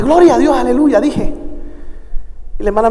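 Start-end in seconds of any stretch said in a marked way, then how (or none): 0.0-1.0 milder reenacted praise. Preacher insisting he had not shouted, milder praise exclamation. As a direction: praise exclamation toned down, falling away. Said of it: "yo no había gritado, yo simplemente".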